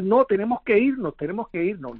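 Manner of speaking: half-shouted urging to get out; retold urgent shout. Survivor retelling his yell to coworkers, mild urgent shout. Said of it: "yo comienzo a gritar".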